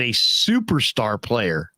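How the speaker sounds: superstar drawn out slowly for emphasis; stress on superstar. Retold or imitated. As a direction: lean slowly on the word superstar. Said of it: "he didn't say star".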